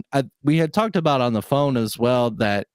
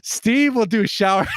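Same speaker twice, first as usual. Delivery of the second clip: higher pitch, laughing through the words; 9 semitones higher, 3 dB louder than usual. Real, not acted. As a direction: crack up while getting the joke out. Cracking up at own joke.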